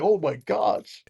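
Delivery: slow, soft, awestruck; awed hush. Retold or imitated. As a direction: let it fall out slowly in awe. Awestruck at huge ballplayer.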